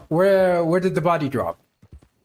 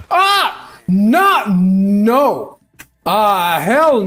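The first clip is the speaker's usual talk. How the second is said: panicking gamer; 3 semitones higher, 6 dB louder, much slower than usual. Real, not acted. Horse stolen, yelling in panic.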